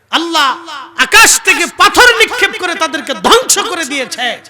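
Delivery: high, loud, forceful rebuke; angry preaching voice. Retold or imitated. Preacher voices the Prophet rebuking companions, angry shout. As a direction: thunder it out at full preaching force, easing at the very end. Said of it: "আল্লাহর নবী রাগান্বিত হয়ে বলেন".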